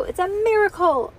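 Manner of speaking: high, loud proclamation of wonder; mock wonder. A narrator's reading. Bean wide-eyed selling Ivy a miracle, high excited cry. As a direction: exclaim it as a grand marvel.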